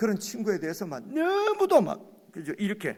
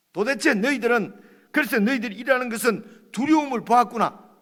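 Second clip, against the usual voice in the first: Job rebuking; 6 semitones higher, 8 dB louder than usual. Acted. Job's words paraphrased heatedly.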